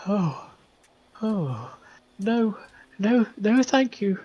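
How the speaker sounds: high, hurried no-thank-you; a nervous grieving mother turning them away; nervous refusal. Acted. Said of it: "she goes".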